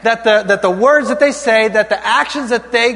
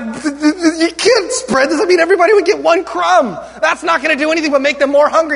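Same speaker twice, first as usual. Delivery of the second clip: protesting disciples; 4 semitones higher than usual. Acted.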